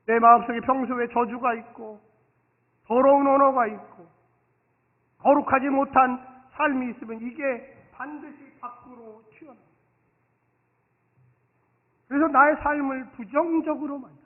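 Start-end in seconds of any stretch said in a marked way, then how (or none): none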